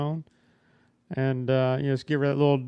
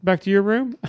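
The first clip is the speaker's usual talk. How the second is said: laughing invitation. Retold or imitated. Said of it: "She goes".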